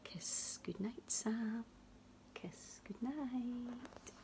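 soft slow whisper. Acted. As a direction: whisper goodnight tenderly.

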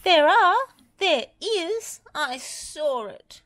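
high, insistent frightened protest; scared little storybook voice insisting; insistent alarm. A narrator's reading. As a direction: protest in a high, panicky character voice. Frightened Lofty insists he saw dragon.

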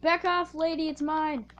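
loud shove-off call at a rival; yelling back off. Real, not acted. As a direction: claim it loudly. Fighting another player for chest.

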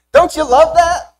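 slow, beaming, thrilled repeat. Acted. Preacher to congregation, relishing Jesus walking out, thrilled. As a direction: lift the whole congregation with delight.

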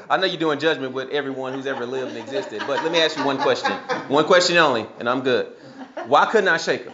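amused, over-polite mock plea; mock petition to God. Believer jokingly questioning God at judgment, mock-earnest and amused. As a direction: playfully plead for one question.

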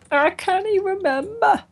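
put-on high, playful Scottish accent. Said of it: "That's enough of my Scottish accent".

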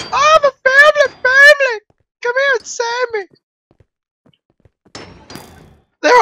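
mock pleading pig. Pleading as pig being chased.

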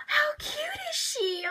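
high, slow, cooing over the doll. Real, not acted. Fan cooing to viewers over the doll, high and slow. Gushing again, slower.

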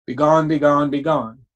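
loud, forceful command fading at the end; commanding banish. Shown as a demonstration. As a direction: cast it out with force, like banishing a spirit. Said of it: "Your voice inflection is your emotion".

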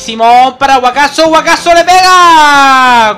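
brisk football commentator voice; live play-by-play. Acted. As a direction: call the match as it happens. (narración de partido en directo)

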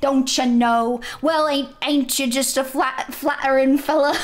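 exaggerated amateur Minnesota accent; attempted Minnesota accent. Shown as a demonstration. Player practising a game line, attempted Minnesota accent. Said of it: "what people sound like in Minnesota".

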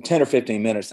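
talking through hiccups; hiccuping between words. Real, not acted. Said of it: "I'm sorry I'm hiccuping".

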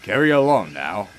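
lightly stern, low boss voice. Acted. Fat Controller scolding James, a hint of stern. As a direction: put him firmly in his place. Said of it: "he replied sternly".

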